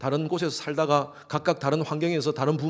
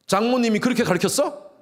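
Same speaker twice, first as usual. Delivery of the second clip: sarcastic jab; 8 semitones higher, 3 dB louder than usual. Acted. Husband insulting wife's upbringing.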